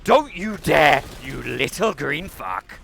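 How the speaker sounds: slow, loud, high "don't you dare" outburst; indignant shout. Real, not acted. Gamer cursing a little green attacker, indignant shout. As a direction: shout down a pesky little enemy. Yelling at an enemy in game.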